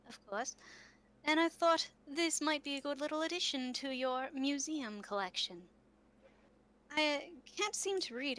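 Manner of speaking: lightly voiced kind older lady; chatty, apologetic visitor with a lilting delivery; kind older townswoman. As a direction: play a hint of a genteel older woman. GM plays Missus Lewison.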